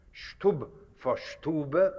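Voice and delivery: Stub clipped short, then Stube in full, slowly; Yiddish versus German word. Shown as a demonstration. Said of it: "developed into that form".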